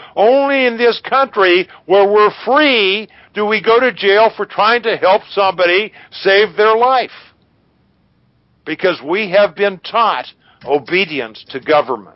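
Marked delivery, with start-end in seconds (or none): 0.2-10.3 bursting out, all heated. Speaker making a point to the other person, yelling. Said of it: "Sorry for yelling".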